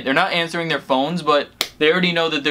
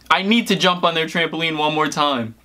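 laughing; 3 semitones higher than usual. Real, not acted. Laughing, quoting own excuse.

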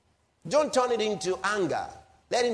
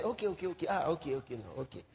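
softer, mock-timid okays to back off; meek giving in; 3 semitones lower, 6 dB quieter, faster than usual. Preacher mocking believers who avoid argument, meek soft okays. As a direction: imitate a pushover folding, half-hearted and soft. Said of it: "He wants us to just chill out and say".

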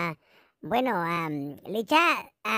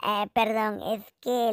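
ordinary delivery

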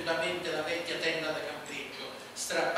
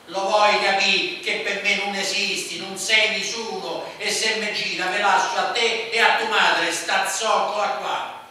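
loud, higher furious tirade; raging threats; 4 semitones higher, 10 dB louder than usual. A narrator's reading. Man raging at the boy and his mother, furious. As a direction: hurl every word with contempt.

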